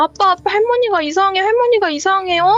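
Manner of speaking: put-on frightened child voice, high and startled. Retelling running to wake her father for her grandmother, retelling own startled call. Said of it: "저는 놀라 가지고".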